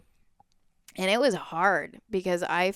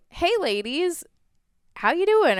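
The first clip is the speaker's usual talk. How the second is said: mock catcall yell; 10 semitones higher, 4 dB louder than usual. Stranger at a window to passing women, mock catcall yell. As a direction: imitate a yell from a window, without full volume. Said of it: "someone yelled out the window".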